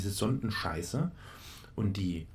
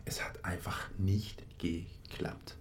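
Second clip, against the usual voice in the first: whisper; 6 dB quieter, slower than usual. Real, not acted. Whispered frustration.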